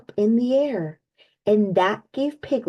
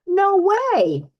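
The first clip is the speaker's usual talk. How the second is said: emphatic no; 10 semitones higher than usual. A narrator's reading. Narrator tells young listeners to keep going, excited. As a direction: cheer the kids on, never give up.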